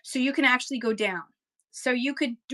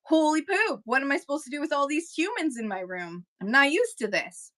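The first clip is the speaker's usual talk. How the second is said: higher-pitched, overwhelmed little freak-out; mock panicky; 4 semitones higher than usual. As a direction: play up being flustered by a sudden crowd. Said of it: "I get a little panicky".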